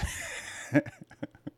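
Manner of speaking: unvoiced high giggle burst; airy giggle; breathy high laugh. Real, not acted. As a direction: let out a breathy squeal of laughter. Laugh alone after bit.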